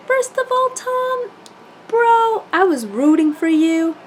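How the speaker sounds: high-pitched, exasperated call-out; loud, high outburst of disappointed disbelief; indignant scolding. Real, not acted. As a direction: tell him off, pitch shooting up. Mock scolding of Tom.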